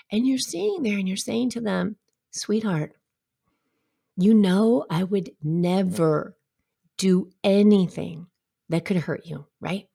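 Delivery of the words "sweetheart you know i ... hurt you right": reassuring parent. Retold or imitated. Parent soothing a scared child.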